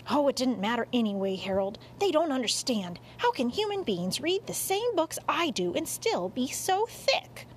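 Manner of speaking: lightly voiced grumbling cat; exasperated cat. Cat venting to dog about humans, mildly exasperated. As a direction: complain at the stupidity of humans.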